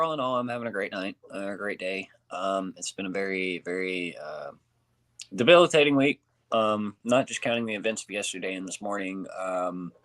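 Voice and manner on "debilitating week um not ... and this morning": whistling on the s sounds; airy whistle through the teeth on each s. Real, not acted. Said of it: "sorry for the whistle".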